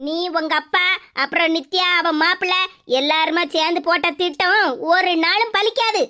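a stern mother catching the two of them out; low, scolding mother's voice. Acted. Mother lectures daughter.

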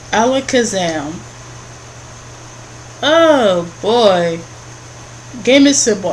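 loud, theatrical quiz host; game host voice. Acted. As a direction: announce the rules like a showman.

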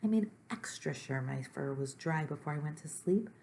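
mildly distressed complaint, slowing and rising at the end; upset Gorp, a little monster. Acted. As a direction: plead that nothing has worked.

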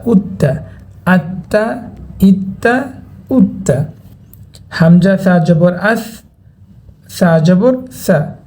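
measured syllable-by-syllable Arabic spelling drill; recitation drill. Shown as a demonstration. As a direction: recite each spelling in a steady pattern, pausing before the joined word. (মক্তবের বানান করে পড়ানোর সুর)

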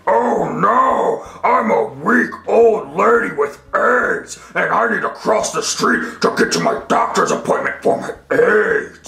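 lightly voiced frail old lady, quick; a hint of a weak old woman. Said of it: "Billy here is going to be an old lady".

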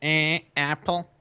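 mock Michigander with a stretched flat A in "apple"; Michigander accent. Friend trying out the A's, mock Michigander accent. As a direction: draw out the A like a Michigander. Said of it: "it's the Michigander accent".

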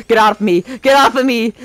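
loud frantic yelling. Real, not acted. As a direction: shove them off, yelling. Fighting off attacker in game.

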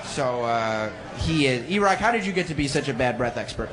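normal talking voice

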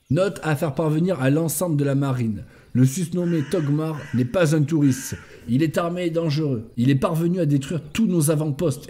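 measured, evenly intoned briefing; military report reading. Acted. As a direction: read out a mission report item by item. Reads in-game note aloud.

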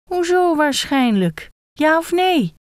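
the head pressing the gekko for a straight answer; impatient demand. Acted. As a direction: pin him down, impatient.

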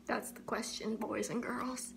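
hushed whisper. Pretend. Dramatic address to the audience.

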